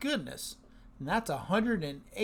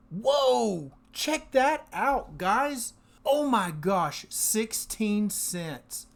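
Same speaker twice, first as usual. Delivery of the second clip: real surprise; 3 semitones higher, slower than usual. Real, not acted. Host stunned by a big Misty payout, surprised. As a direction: let the astonishment stretch out the words. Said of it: "I am so surprised with that".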